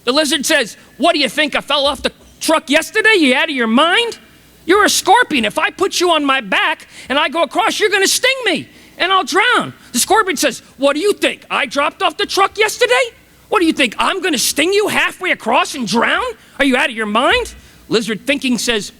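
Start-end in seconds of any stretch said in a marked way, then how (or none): 1.0-9.7 higher-pitched, mock-incredulous retort; indignant disbelief. Lizard refuses to carry the scorpion, indignant. 10.8-17.5 mock-offended, rising questions; incredulous comeback. Scorpion protests to the wary lizard, incredulous.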